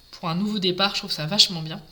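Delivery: talking through hiccups; hiccuping mid-sentence. Real, not acted. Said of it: "j'ai le hoquet".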